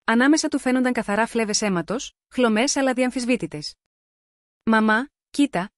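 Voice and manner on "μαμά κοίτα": put-on slow, puzzled little girl calling mum; a child unsure what she sees, drawn out; curious, awkward child. A narrator's reading. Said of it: "μίξη παιδικής περιέργειας και αμηχανίας". (παιδική περιέργεια με αμηχανία, αργά)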